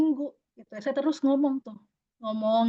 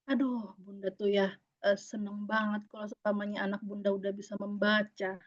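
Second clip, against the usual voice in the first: soft tender coaxing; 4 semitones lower, 6 dB quieter than usual. Retold or imitated. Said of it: "selalu ngomong begini".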